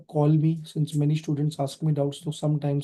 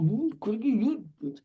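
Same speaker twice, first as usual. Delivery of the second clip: mock aggressive effort; 6 semitones higher, 4 dB quieter, slower than usual. Shown as a demonstration. Teacher showing students how firecrackers get thrown, mock aggressive effort. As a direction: act out hurling it down with pretend aggression. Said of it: "पूरा aggression निकालते हो".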